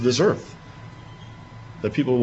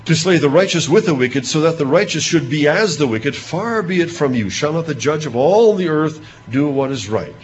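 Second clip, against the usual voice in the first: louder, pressing plea; Abraham pleading; 3 semitones higher, 4 dB louder than usual. Acted. Abraham pressing the judge of all the earth, in a lightly voiced urgent plea. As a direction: urge God to be just.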